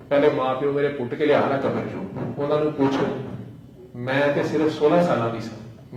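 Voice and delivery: lightly voiced old mother, rising into loud grievance; mock outburst swelling to a loud cry; angry mother. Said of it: "اماں ایک دم غصہ کر".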